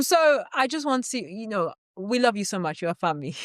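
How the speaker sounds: a hint of a relative sweet-talking for money; mock family caller. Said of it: "Just keep doing it".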